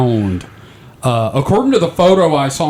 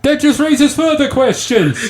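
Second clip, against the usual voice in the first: laughing; 12 semitones higher than usual. Real, not acted. Baffled by strange globe picture.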